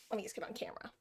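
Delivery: breathy whisper, half to herself; whispered aside. Real, not acted. Streamer to herself while setting up, whispered. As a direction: drop to a whisper while fixing the camera.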